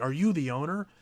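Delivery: loud, barked, forceful voice. Retelling what he asked a female coworker: imitating someone barking. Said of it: "barks it at her".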